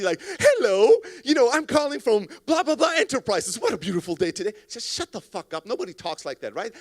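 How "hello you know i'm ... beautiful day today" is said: high, loud, over-cheery cold caller; fake salesy. Fake salesperson cold-calling a prospect, phony salesy cheer. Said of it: "in a fake salesy".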